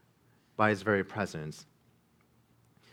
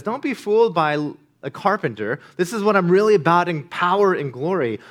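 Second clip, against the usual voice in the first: loud, higher declaration of power; proclaiming glory; 7 semitones higher, 8 dB louder than usual. Acted. Jesus tells the frightened disciples not to be fooled, proclaiming loudly. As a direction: announce it boldly, ringing out.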